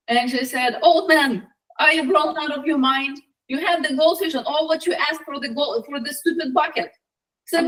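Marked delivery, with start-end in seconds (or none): 0.8-6.9 raised-pitch indignant telling-off; mild exasperated nagging; scolding wife. Acted. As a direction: scold a foolish husband in a higher voice. Wife scolds husband over bucket.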